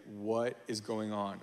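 low, soft, slow disbelief; imitated hushed bafflement. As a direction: quote a puzzled wife under your breath. Retells wife entering silent house.

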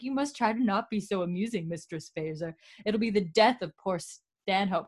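a hint of a condescending aristocrat; lightly voiced snide gentleman. Mild mock of Wiley teasing Claire at dinner, snide.

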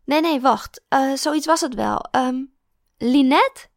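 put-on the drunk old teacher thrilled to remember; tipsy old teacher. Teacher voiced.

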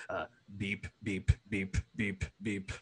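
soft, low spoken beeps; bomb timer beeps. Shown as a demonstration. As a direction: imitate a steady rapid beeping. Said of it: "it sounds a bit like this".

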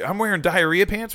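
realising the uniform is soiled, high and loud; mock horror. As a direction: wail it in disgust. Retelling horrified line.

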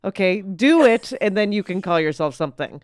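firm mock lecture to a wannabe writer; retold scolding. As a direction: scold the intern with emphasis. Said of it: "And I was like".

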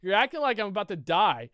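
high, loud, stammering disbelief; retold exasperated protest. Confronting friends over the snatched plate, exasperated. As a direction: re-enact being baffled and indignant.

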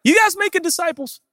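high, pressing question; intense believer. Acted. Zealous Christian quizzing pastor at the store, high and intense. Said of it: "you're intense, we're gruff".

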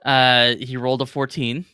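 ordinary talk

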